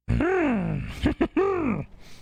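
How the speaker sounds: very high Marge-like laugh; raspy high laugh. Acted. Streamer laughing in a very high cartoon voice. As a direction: cackle high like a cartoon mom. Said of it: "Sounds like Marge Simpson".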